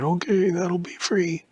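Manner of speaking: high, slow conspiratorial whisper; sly whisper. Acted. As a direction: whisper it like a secret deal. Worker whispers the price.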